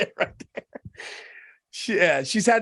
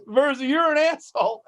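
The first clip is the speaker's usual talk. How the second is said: sick coworker; 7 semitones higher than usual. Retold or imitated. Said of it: "he goes".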